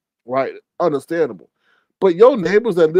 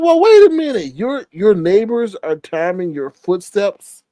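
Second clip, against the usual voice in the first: incredulous. Retold or imitated. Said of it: "I'm like".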